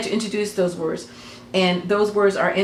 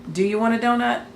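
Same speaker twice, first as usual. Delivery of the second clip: plain English question, "donut" lifted higher; question intonation; 4 semitones higher than usual. Shown as a demonstration. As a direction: ask it with pitch climbing on "donut". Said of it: "the inflection of the tone".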